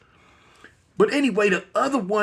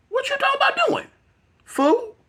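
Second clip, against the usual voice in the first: incredulous shout. Retold or imitated. Hearing cops plan to kill them, a shocked yell. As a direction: shout it like you can't believe what you heard.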